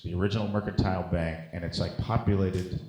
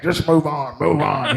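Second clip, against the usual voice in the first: weary actor aside; 5 semitones higher, 7 dB louder than usual. Retold or imitated. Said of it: "he's like".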